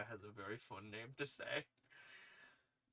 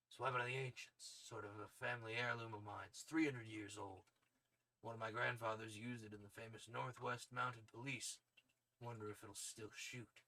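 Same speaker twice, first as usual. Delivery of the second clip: throat-straining tough soldier voice; Solid Snake voice. Acted. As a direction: play it like a hardened covert operative. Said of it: "I did not mean to give him a Solid Snake voice".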